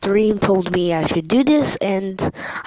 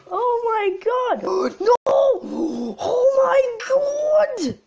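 high, loud panicked cries; 6 dB louder than usual. Real, not acted. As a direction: freak out in real fright. Panicked by attacking mobs.

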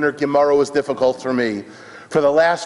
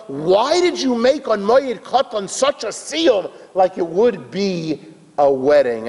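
high, emphatic questioning; acted baffled onlooker; incredulous demand; 7 semitones higher than usual. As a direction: press him for an explanation in disbelief. Crowd demands an explanation.

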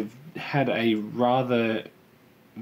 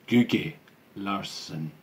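name said with an accidental Irish lilt; Irish accent; 2 semitones lower, much slower than usual. Real, not acted. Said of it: "Why did I say that with an Irish accent?".

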